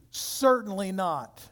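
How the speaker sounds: slow, emphatic denial; firmly emphatic, drawn out. Retold or imitated. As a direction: weigh each word of a firm refusal.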